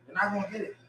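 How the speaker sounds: you're not gonna get it, dropped soft. Real, not acted. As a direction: let it fall away, quietly.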